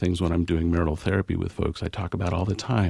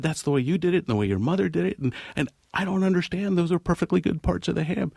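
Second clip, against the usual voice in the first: flustered pleading; 10 semitones higher, faster than usual. Retold or imitated. Husband pleads with mother-in-law.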